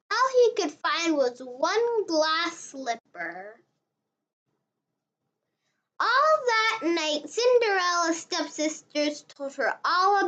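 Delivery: gentle, even read-aloud for little ones; storybook narration. A narrator's reading. Reading Cinderella to beginner readers, storybook narration. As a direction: read it like a bedtime picture book. Reads a picture book aloud.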